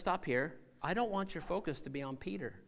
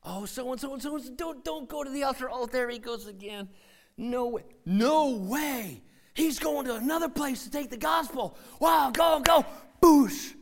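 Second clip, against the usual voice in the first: mocking churchgoers; 6 semitones higher, 6 dB louder than usual. Church folk gossip mockingly.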